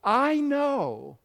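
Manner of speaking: imploring God. Acted. Preacher voices God speaking to those who hate him, lightly imploring. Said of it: "This is God saying".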